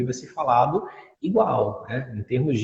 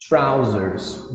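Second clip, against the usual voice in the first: British English; 2 semitones lower than usual. Shown as a demonstration. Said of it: "São calças em inglês britânico".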